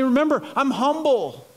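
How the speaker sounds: earnest plea, stretching key words out; heartfelt appeal with lingering emphasis; pleading. Acted. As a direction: implore them, slowing on the last words. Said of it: "like, pleading and, and be like".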